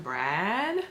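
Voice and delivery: questioning call with a rising end; tentative calling out. Retold or imitated. Creeping through the house seeking Brad, tentative call. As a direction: call the name out, lifting at the end.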